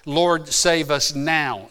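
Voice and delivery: slow, drawn-out Lord, save us now; emphatic plea. Shown as a demonstration. Preacher explaining what Hosanna means, emphatic plea. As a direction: give each word of Lord, save us now its own weight. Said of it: "an emphatic thing".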